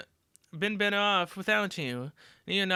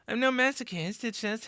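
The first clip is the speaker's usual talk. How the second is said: laughing; 2 semitones higher than usual. Acted. Laughing off a teasing threat.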